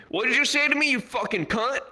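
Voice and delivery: very high, incredulous challenge; mock indignation. Crackhead confronts airport officer, high mock indignation. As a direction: squawk it like an offended crackhead. Crackhead retorts in acted quarrel.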